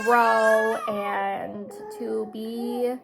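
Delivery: slow, tearful catch in the voice; words dragging as tears come; voice breaking. Real, not acted. Mom tearing up over daughter starting school, voice breaking. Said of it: "I'm getting really sad".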